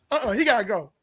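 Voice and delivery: ordinary talk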